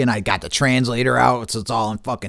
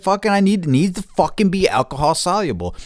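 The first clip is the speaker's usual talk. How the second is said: indignant retort; 9 semitones higher than usual. Retold or imitated. Arguing back at the seller.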